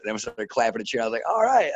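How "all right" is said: high, pleased response to applause; retold pleased cheer; excited cheer. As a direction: lift the pitch, play the thrilled reaction. Retold reaction to applauding crowd.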